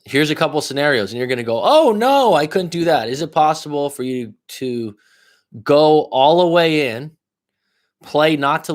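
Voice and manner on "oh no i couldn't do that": mock timid gasp. Mocking listener's timid objection.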